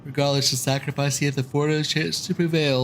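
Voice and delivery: lightly voiced young scholar, formal; a hint of a formal young elf lord; Alphinaud voice. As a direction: read it as a prim young noble. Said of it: "That's not Alphinaud at all".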